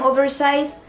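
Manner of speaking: put-on "oversize" with a touch of English accent; playful English accent. Haul vlogger describing a size S shirt, playful English accent. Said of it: "l'accent anglais, tu connais".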